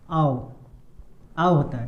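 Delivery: आओ repeated low as the "au" vowel; sound demo. Shown as a demonstration. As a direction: drill आओ, dropping the pitch. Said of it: "ओयू का उच्चारण मैंने क्या बताया था?".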